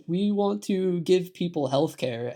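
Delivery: voicing an earnest appeal, slowly; mock earnest plea. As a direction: draw it out like a reasonable suggestion. Voicing one side of argument.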